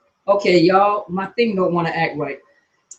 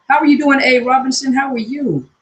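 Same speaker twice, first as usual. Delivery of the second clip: loud high greeting; 6 semitones higher, 3 dB louder than usual. Real, not acted. Greeting viewers joining live.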